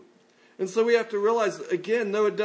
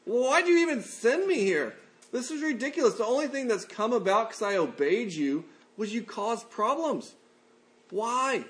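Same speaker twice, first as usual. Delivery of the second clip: mock crying out; 5 semitones higher than usual. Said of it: "He cries out to God and goes".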